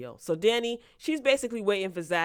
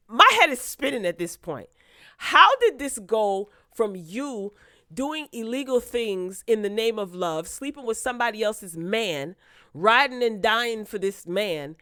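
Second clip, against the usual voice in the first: louder, higher ranting; exasperated rant; 3 semitones higher, 5 dB louder than usual. Real, not acted. Ranting about the plot, louder and exasperated. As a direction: vent in disbelief.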